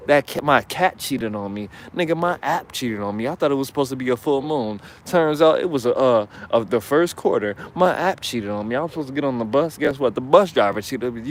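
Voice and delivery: hammed-up rant of a cheated-on man; mocking, escalating tirade of grievance; mock bitter man. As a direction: imitate a jilted man's complaints, piling up absurdly. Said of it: "you're speaking from your nose".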